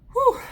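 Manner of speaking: a big loud high whew blown out; relieved whew. Real, not acted. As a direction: let the breath go with a loud whew. Blowing out after heavy reading.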